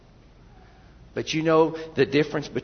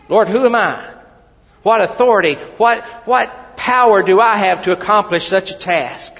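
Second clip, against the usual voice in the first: high, loud protest; pleading Moses; 5 semitones higher, 10 dB louder than usual. Acted. Moses asking God what authority he has, loud and high. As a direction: demand to know what power you have.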